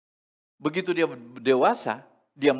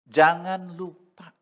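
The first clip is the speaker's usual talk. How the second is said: "jangan lupa" slow and louder; emphatic plea; 3 semitones higher, 8 dB louder, slower than usual. Real, not acted. Preacher urging parents: "jangan lupa", slow and loud. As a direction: lean hard on "jangan lupa".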